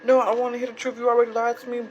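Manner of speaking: brushing her off with blah blah; mock angry boyfriend voice. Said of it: "And he".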